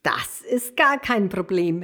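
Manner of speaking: calling out eagerly. Acted. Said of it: "rief er".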